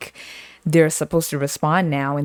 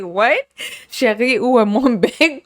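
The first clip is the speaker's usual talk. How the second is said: hammed-up French; 5 semitones higher than usual. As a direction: play up a silly French lover voice, laughing. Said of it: "I was like".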